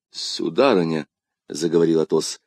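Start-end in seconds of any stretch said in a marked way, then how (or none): 0.1-1.1 grave address. Acted. Athos gravely addresses her.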